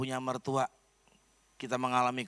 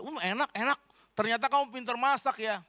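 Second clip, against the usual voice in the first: pleased mother-in-law; 8 semitones higher than usual. Retold or imitated. Mother-in-law praises the soup.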